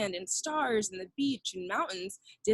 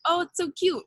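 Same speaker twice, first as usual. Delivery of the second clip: cooing; 8 semitones higher, 3 dB louder than usual. Pretend. Imagined reaction to baby duck.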